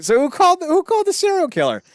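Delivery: high, loud crowd outcry; alarmed mock shout. Prisoners react to the psychopath stabbing, high mock-alarmed shout. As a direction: shout the question as mock outrage.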